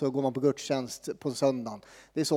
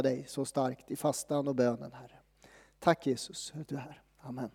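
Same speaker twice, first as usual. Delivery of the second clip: hushed closing prayer; 2 semitones lower than usual. Acted. Leads prayer.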